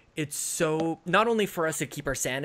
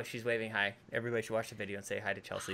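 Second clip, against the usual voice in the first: whispering on the phone; 4 semitones lower, 9 dB quieter than usual. Real, not acted. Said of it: "why are you whispering?".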